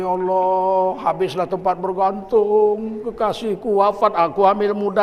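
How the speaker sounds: slow, drawn-out imitated lament; mock weeping. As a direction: imitate a widow's wail, mildly. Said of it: "Istrinya nangis-nangis". (tiruan ratapan istri, pelan mendayu)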